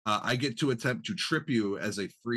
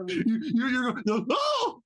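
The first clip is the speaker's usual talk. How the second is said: cracking high yell. Retold or imitated. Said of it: "your voice just cracked".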